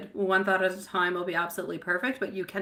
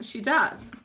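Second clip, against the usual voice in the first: laughing. Real, not acted. Starts laughing on repeat.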